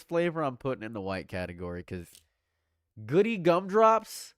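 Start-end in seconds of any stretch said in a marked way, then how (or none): 3.1-4.3 amused disbelief. Real, not acted. Reading silly flavor name.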